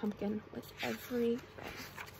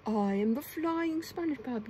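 mock yell; 4 dB louder than usual. A narrator's reading. SpongeBob swooping over the party as a ghost, yelling. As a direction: call it out like a pretend spooky phantom. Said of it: "yelled SpongeBob".

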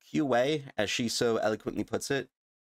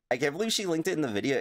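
excited disbelief; 6 semitones higher, faster than usual. Real, not acted.

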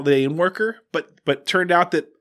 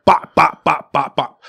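punch sounds; 5 dB louder, slower than usual. Retold or imitated. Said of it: "Just rapid fire".

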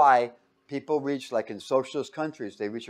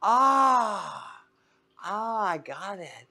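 mock aha; 6 semitones higher, much slower than usual. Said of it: "it was like".

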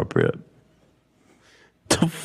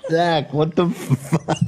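laughing; 4 semitones higher than usual. Real, not acted. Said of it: "That's why I'm laughing".

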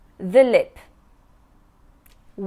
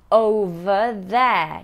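Over there slowly, clear v then th; patient teacher model; slow demo; slower than usual. Shown as a demonstration. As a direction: stretch over there carefully. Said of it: "Remember, v and th".

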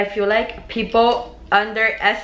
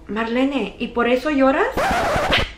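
a higher, slower mom voice, lightly voiced; mocking mom; 6 semitones higher, slower than usual. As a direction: play the mom teasing her daughter.

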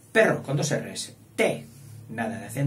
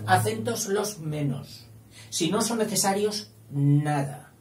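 raised, deliberate laying down of rules; stern Lady Grammar; 4 semitones higher than usual. Acted. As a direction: lay down the law as a fussy authority. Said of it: "viene la señora gramática y le dice".

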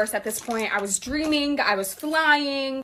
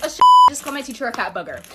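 panicked; 2 semitones lower, 7 dB louder, faster than usual. Real, not acted. Panicked realization.

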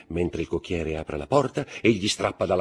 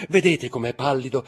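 high, loud, desperate mother; mother's cry; 7 semitones higher, 6 dB louder than usual. A narrator's reading. Mother cries out to the count for her son, loud and desperate. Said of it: "gridò la madre".

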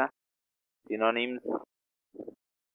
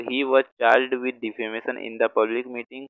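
each word spaced out for writing; slow dictation; much slower than usual. Shown as a demonstration. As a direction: read it slowly so students can copy. Teacher repeats example sentence slowly. (धीमे-धीमे बोलकर लिखवाना)

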